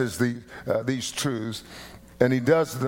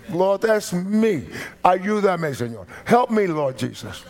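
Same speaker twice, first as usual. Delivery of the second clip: loud, high, slow prayer, out in the open; loud open confession; 5 semitones higher than usual. Shown as a demonstration. Pastor shows the church how to confess out loud. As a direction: cry it out to the Lord for all to hear. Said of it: "that's how you do that".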